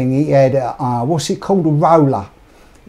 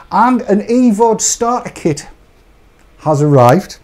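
halting announcement; 5 semitones higher than usual. Shown as a demonstration. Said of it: "he said, pressing the right button".

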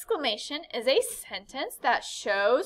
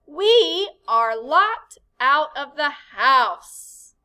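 alarmed; 2 semitones higher, 10 dB louder, much slower than usual. Shown as a demonstration. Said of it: "Do you see the exclamation point?".

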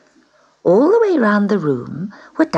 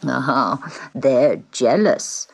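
put-on gentle old man; 4 semitones lower, much slower than usual. Old man explains the growling.

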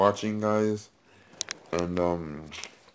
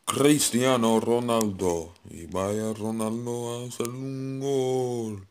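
Spanish commentator; 2 semitones higher, slower than usual. Pretend. Calling a goal like a commentator.

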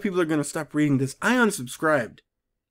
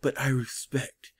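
slow, lower mock-earnest quote; stilted mock solemnity; 4 semitones lower, 5 dB quieter, slower than usual. Reader repeating the line that stuck out, stilted solemnity. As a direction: intone it gravely and slowly. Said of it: "that one stuck out so much".

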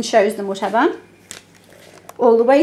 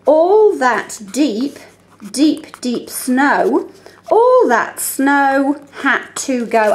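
slow, deliberate read-aloud; much slower than usual. Shown as a demonstration. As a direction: read it slowly, letting the sounds stand out. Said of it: "look for speech sound picks".

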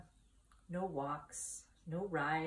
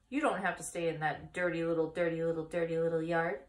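1 fast goose; 4 dB louder than usual. Acted. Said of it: "who talked rather fast".

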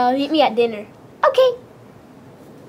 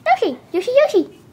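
Yoshi chatter; 3 semitones higher than usual. Acted. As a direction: babble it like a little dinosaur. Yoshi chattering his name.

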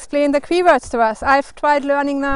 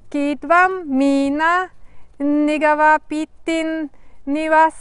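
unhurried, measured storybook narration; picture-book reading with careful pauses; story read-aloud. Acted. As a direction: read it to children phrase by phrase, with pauses.

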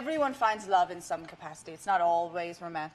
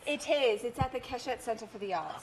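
put-on London accent. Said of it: "My accent's going in and out".

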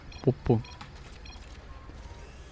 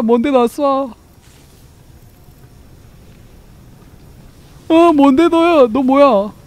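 shocked outburst; 7 semitones higher, 4 dB louder, slower than usual. Real, not acted. Shocked at being shot.

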